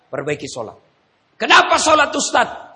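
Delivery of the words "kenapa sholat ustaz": voiced question. Voicing listener question.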